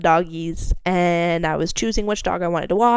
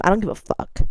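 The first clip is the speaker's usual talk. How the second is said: mock defensive; 3 semitones higher, 3 dB quieter than usual. Real, not acted. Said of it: "I love getting really defensive".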